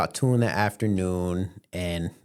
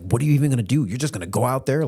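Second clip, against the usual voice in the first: higher, louder imitated questioning; incredulous mom; 5 semitones higher, 4 dB louder, much faster than usual. Mom questioning son's trip, higher incredulous imitation. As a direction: press him with rising disbelief.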